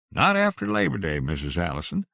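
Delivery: firm, clipped answer. Acted. Grocer firmly refusing Missus Allison, firm tone. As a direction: lay down the rule. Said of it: "said firmly".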